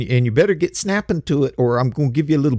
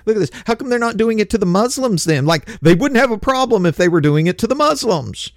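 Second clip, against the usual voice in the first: mock whining; 4 semitones higher than usual. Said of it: "Whine about it".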